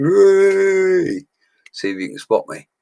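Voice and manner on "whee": high, loud whoop; mock crowd cheer. Showing how he cheered at the gig, high whoop. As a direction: squeal like you're in the festival crowd.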